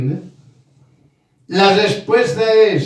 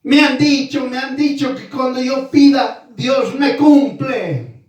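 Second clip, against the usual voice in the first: high, raised voice crying out to God; mock shouting complaint; 4 semitones higher than usual. A complainer yelling at God that he was promised. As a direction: wail it like someone demanding what was promised. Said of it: "Y empieza a gritar".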